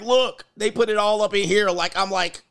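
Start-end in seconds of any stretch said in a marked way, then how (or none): 0.0-0.4 high, eager mock girlfriend; mock girlfriend pushing her phone. Woman pushing her phone at her man, eager. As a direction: shove the phone in his face, higher. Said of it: "They're like".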